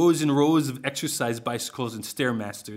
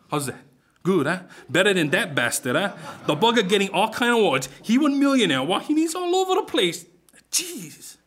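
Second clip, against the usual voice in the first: excited boast; 7 semitones higher, 4 dB louder than usual. Acted.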